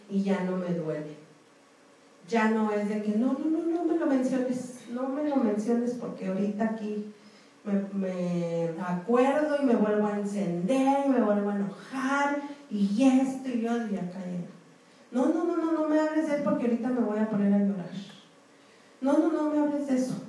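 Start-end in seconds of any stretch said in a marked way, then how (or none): 3.2-13.7 mock upset refusal. Imitating a resentful person refusing. 15.1-20.1 mock distressed pleading. Imitating someone about to cry.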